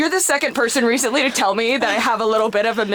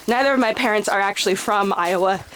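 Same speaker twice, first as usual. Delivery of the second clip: slightly winded from the uphill hike; talking while short of breath; 2 semitones lower than usual. Real, not acted. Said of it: "Ooh, huffing and puffing".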